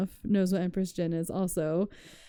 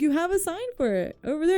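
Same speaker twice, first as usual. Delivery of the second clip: high, fast, insistent retold shout; exasperated yell; 9 semitones higher, faster than usual. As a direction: hurl it at him over the music. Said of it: "trying to yell this at him".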